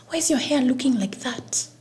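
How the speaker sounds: high, indignant lady scolding; bothered lady. Retold or imitated. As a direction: scold her hair like a bothered stranger. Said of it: "a lady who walked up to me so bothered".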